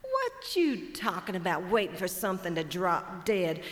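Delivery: mocking the buzzard's words back at him; incredulous hawk. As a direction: scoff at the lazy buzzard. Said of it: "Chicken hawk says".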